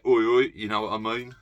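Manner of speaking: a hint of a chirpy London geezer; mild cockney geezer impression; cheeky London boy. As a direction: toss off a cockney oi oi. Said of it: "cheeky, chappy London boy".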